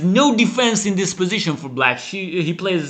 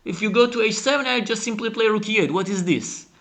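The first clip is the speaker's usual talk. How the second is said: higher, fast, baffled voicing of black; incredulous opponent; 5 semitones higher than usual. Commentator voicing black's bafflement at the knight move. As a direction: play the shocked opponent, rattled and quick. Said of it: "And black says".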